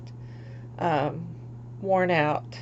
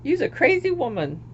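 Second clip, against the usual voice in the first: teasing herself; 6 semitones higher than usual. Retold or imitated. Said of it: "cracking up and saying".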